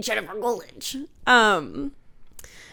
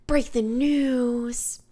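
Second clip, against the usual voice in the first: Jennifer Coolidge impression; 3 semitones higher, slower than usual. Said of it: "like, Jennifer Coolidge?".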